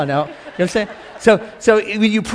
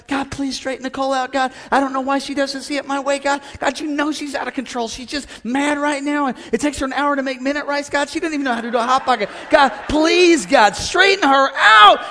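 whiny complaining prayer; 4 semitones higher than usual. Retold or imitated. Husband griping to God about wife Nicole. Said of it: "my prayers in the flesh".

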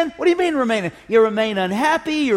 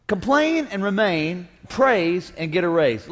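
slow slogan; 2 semitones lower, slower than usual. Shown as a demonstration. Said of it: "He said".

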